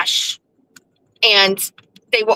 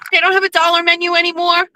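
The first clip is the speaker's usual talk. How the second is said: higher, fast mocking echo; mock Jeff; 7 semitones higher, faster than usual. Mocking her husband's dollar-menu idea, high and quick. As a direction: parrot him in a high, quick voice. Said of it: "They don't have a dollar menu anymore, obviously".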